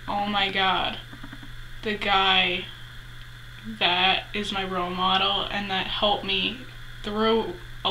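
softly awed, measured delivery; understated heartfelt disbelief; sincere awe. Shown as a demonstration. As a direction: say it in earnest, quietly overwhelmed. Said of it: "It's like".

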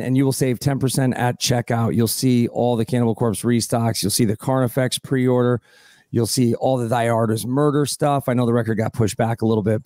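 brisk host sponsor read. Acted. Host reading sponsor spot to listeners, brisk ad read. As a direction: rattle off the sponsor spot quickly.

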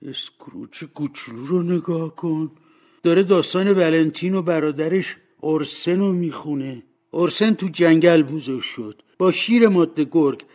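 high voice with a lump in the throat; moved, a touch tearful; choked up. A narrator's reading. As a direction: speak up through rising emotion, easing off at the end. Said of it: "با بغض گفت".

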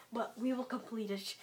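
soft unvoiced promise; whisper. Real, not acted. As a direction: whisper it with resolve. Quiet resolve after failing.

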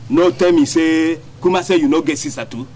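incredulous. Acted. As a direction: drag it out in disbelief. Officer incredulous.

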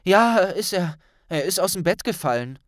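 a bright schoolgirl answering fast; Hermine voice. Acted.

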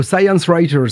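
English name in an American accent; slow American-accented English. Real, not acted. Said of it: "Quel accent".

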